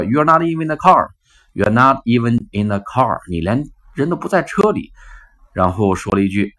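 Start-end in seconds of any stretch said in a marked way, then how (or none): 0.0-3.2 slow, stress on "not" high. Retold or imitated. Man pointing out she's not in the car, stressing "not". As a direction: lean hard on "not", slowly. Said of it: "一个叫".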